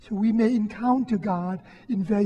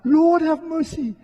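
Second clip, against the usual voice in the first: loud, higher desperate plea; crying out; 6 semitones higher, 5 dB louder than usual. Retold or imitated. Peter sinking, crying out to the Lord in a loud plea. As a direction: call out for rescue like a sinking man. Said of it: "he cries out".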